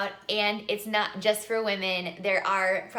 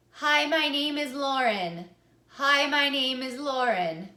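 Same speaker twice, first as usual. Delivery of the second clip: "Hi, my name is Lauren" held all on one note; monotone; 3 semitones higher, 4 dB louder than usual. Shown as a demonstration. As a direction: speak every word on the same pitch. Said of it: "Say a sentence all on the same tone".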